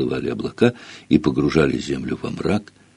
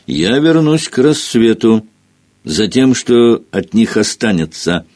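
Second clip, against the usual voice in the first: sinister; 4 semitones higher than usual. Acted. Filch's parting threat.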